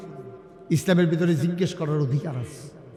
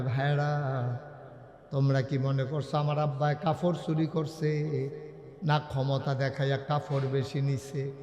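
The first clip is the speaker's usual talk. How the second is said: low, soft plea to brothers; subdued appeal; 4 semitones lower, 6 dB quieter than usual. Acted. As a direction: quietly defend your father's honour. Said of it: "আবার আব্দুল্লাহ ইবনে উমর ডাক দেয়া কয়". (নিচু গলায় বিনীত আবেদন)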